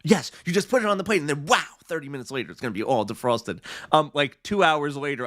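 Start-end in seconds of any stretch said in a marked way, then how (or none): 0.0-3.4 infomercial voice. Retold or imitated. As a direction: sell it like a late-night TV ad. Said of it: "the infomercial vo-, voice".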